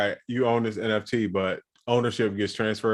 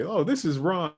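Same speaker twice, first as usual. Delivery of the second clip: higher put-on friendly intro; fake caller voice; 8 semitones higher than usual. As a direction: sound like a scripted caller. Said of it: "with the fake voice joint".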